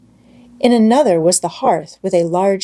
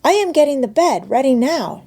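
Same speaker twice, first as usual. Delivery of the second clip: put-on busy child calling down; 7 semitones higher than usual. A narrator's reading. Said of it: "she called down again".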